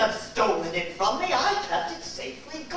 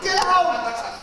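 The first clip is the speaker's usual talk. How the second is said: a higher, drawn-out angry get out; higher angry shout; 6 semitones higher, 5 dB louder than usual. Acted. Repeating the order with a higher, longer angry shout. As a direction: shout it even harder the second time.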